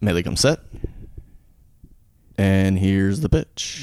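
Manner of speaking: slow, drawn-out play-by-play call; sports commentary. Pretend. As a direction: call the pitch like a broadcaster. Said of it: "we'll give you a live, live thing here".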